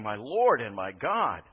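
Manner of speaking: tearful confession. Retold or imitated. Thomas in tears before Jesus, slow emotional cry. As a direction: let it break with feeling, slowly. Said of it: "with tears running down his face".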